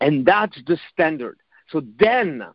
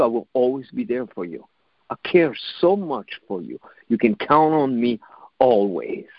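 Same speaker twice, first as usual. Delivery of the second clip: lower, reassuring voice; supportive inner voice; 7 semitones lower than usual. Acted. Inner voice promising to be there for you, supportive. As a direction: pledge support in a lowered, steady tone. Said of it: "the voice that is the most supportive within you".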